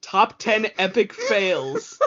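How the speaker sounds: slow, dramatic clickbait announcer; clickbait video narrator. Pretend. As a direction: drag out the title like a hype video. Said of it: "start naming all of our videos".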